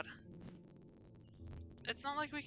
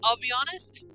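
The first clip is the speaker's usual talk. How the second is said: loud, exasperated complaining; worked up and emphatic; upset; 8 dB louder than usual. Real, not acted. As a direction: rant indignantly about an unfair puzzle. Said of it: "Why am I getting upset?".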